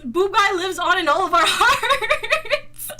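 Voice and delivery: slow mock-heartfelt tribute, last word drawn out; hammed-up sentimental send-off. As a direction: stretch the final word into a rising wobble. Mock tribute to boob guy.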